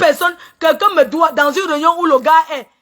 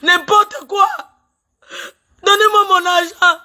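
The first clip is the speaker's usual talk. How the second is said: tearful outburst; 3 semitones higher than usual. Real, not acted. Tearful outburst demanding her money.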